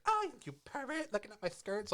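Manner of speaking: high, squeaky mock outrage; mock scandalised girl. Ashley caught being looked at, squeaky mock outrage. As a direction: play the offended president's daughter. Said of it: "she's like".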